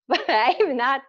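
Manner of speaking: laughing as she says it; embarrassed laughing. Real, not acted.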